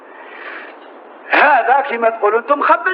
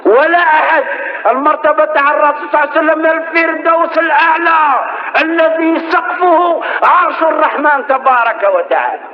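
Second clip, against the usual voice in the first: fiery preaching. Acted. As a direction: preach it out to the congregation. Preaches at full force.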